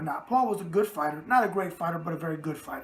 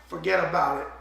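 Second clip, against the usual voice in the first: New York catchphrase; 3 semitones lower than usual. Acted. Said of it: "and the New York thing".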